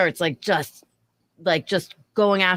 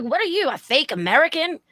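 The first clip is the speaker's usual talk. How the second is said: shrill, fast, much higher put-on voice; mocking high drunk voice; 8 semitones higher, 3 dB louder than usual. Server mocking drunk customer, shrill and fast. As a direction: mimic her, high and fast.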